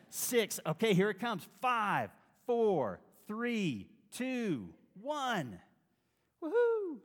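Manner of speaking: hammed-up excited countdown, high and loud; new year countdown crowd. Mock disciples counting down.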